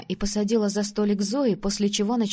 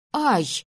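higher, louder "ow"; short cry of pain; 4 semitones higher, 5 dB louder than usual. A narrator's reading. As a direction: yelp as if a lock of hair was tugged. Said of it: "вскликнула я". (вскрик от боли)

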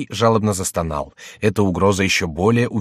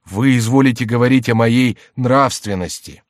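higher, louder mock-pitiful tone; plaintive voice; 4 semitones higher, 6 dB louder than usual. A narrator's reading. Jester answers the voice about morals, plaintive. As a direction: whine politely as a sorry penitent. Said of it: "отвечал Шико жалобным голосом".

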